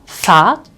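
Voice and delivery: Fahrt with the R melted into a long ah; R said as a vowel. Shown as a demonstration. Teacher showing learners the vocalized R in Fahrt. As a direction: say Fahrt with no rolled R, just a long A. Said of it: "the R is at the end of the word".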